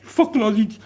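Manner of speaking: high, loud outraged victim; hammed-up high-pitched furious protest; mock screaming. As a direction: yell it like someone pinned under a body. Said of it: "and he's screaming".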